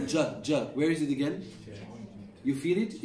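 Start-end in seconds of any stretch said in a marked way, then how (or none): 0.1-0.6 "ja" with an English J, tongue at the front; English-style J. Shown as a demonstration. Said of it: "People in English, they will say".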